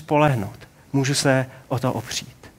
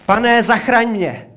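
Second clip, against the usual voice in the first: a slow, raised cry for help; 6 semitones higher, 4 dB louder, slower than usual. A narrator's reading. Peter sinking in the storm, crying out slowly. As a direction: call out to the Lord as you sink. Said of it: "vykřikl Petr".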